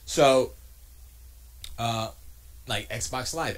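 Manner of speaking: normal talking voice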